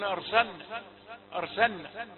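أرسلنا with lam merged into nun; imitating wrong merging. Teacher imitating readers who merge letters. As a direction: run the l of أرسلنا into the n. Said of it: "يدغمونها في النون يقولون".

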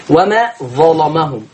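ظلمهم with a heavy, dark l; تغليظ اللام. Shown as a demonstration. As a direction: thicken the lam in ظلمهم. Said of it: "زيها مغلظة". (ظلمهم بلام مغلظة)

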